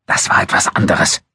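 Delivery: a short irritated huff; André snapping back at Abu Dun, irritated; snorting retort. A narrator's reading. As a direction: brush it off with a snort. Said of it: "schnaubte André".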